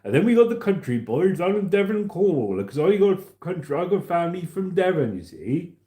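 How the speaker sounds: hammed-up West Country impression; West Country accent. Shown as a demonstration. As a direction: do a broad Devon and Cornwall accent. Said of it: "And this is how we talk".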